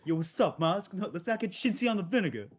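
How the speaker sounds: Elmo voice. Acted. Joining the Elmo bit.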